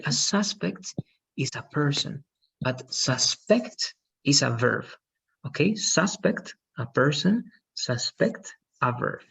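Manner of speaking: suspect as a person stressed on SUS, suspect as a verb stressed on SPECT; stress shift in suspect. Shown as a demonstration. Teacher contrasting the noun and verb stress of suspect. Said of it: "that's a different word".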